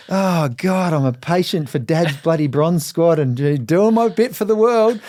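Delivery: mock-exasperated, rising high on the last words; exasperated groan. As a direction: sigh it like a fed-up teen. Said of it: "I'd be like".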